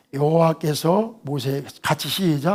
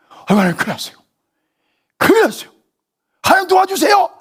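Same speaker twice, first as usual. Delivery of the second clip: loud, high panicked cry to God; frightened believer shouting for help; 14 semitones higher, 8 dB louder, faster than usual. Retold or imitated. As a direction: wail for help in mock panic. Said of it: "이렇게만 끝까지 하지 말고".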